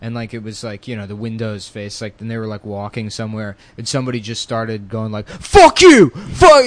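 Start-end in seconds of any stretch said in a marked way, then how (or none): 5.3-6.6 high, loud heckling yell; retold screaming. Sixth grader yelling out the window, imitated scream. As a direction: scream it like a rowdy kid at a window. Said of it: "And we're screaming".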